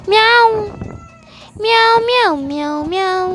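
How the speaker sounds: high mewing like a kitten; squeaky kitten mews; playful cat meow. Pretend. Child imitates a cat.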